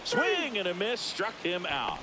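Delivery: high-pitched swing at the first word, falling after; excited strikeout call. Real, not acted. Commentator calls a batter's strikeout, excited call.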